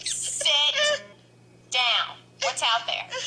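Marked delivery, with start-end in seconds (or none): 0.0-2.2 firmer call. Real, not acted. Mom repeats, pitched up.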